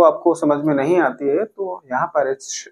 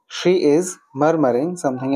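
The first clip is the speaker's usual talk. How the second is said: slow model sentence; much slower than usual. Shown as a demonstration.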